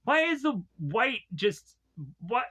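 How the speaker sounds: high, sharp disbelief; shocked outburst. Retold or imitated. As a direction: blurt it out, startled. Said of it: "I'm like".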